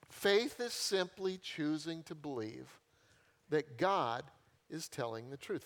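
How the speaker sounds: Faith is simply choosing to believe said slowly, word by word; slow it right down to drive the definition home; slow emphatic repeat. Shown as a demonstration. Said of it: "repeated slowly for emphasis".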